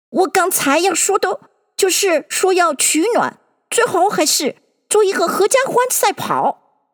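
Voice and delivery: high-pitched, mildly put-out Dodo; displeased Dodo. A narrator's reading. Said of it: "很不高兴".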